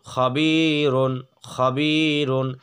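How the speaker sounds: খবিরুন drawn out with a clear নুন ending; slow tanween. Shown as a demonstration. Teacher sounding out the word. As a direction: stretch খবিরুন slowly. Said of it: "র দুই পেশ রুন".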